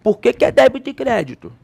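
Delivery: mock a student questioning the rule; imagined confused student. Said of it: "começa a falar assim".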